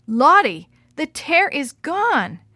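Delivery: a sister stunned by a miracle; breathless amazement, drawn out; gasping in surprise. A narrator's reading. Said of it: "Gladys gasped".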